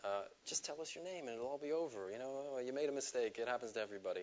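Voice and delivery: soft, coaxing good cop. Retold or imitated. Good cop coaxing the teen, softly. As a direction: gently talk him round.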